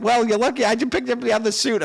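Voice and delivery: high, loud teasing mom voice. Retold or imitated. Mom teasing soaked dad through the window, high and amused. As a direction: needle him like an amused wife.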